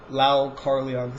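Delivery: "Lau Kar-leong" drawn out slowly; slow, tentative go at "Lau Kar-leong"; careful pronunciation attempt. Real, not acted. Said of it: "figure out how to say Lau".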